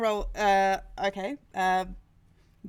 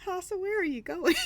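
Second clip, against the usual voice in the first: laughing call; 9 semitones higher than usual. Acted. Calling after Hasa.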